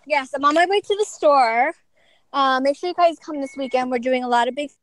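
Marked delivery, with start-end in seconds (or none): 2.3-4.7 breathless while hauling stuff; puffing between words; out of breath. Real, not acted. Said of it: "I'm out of breath because I have to go".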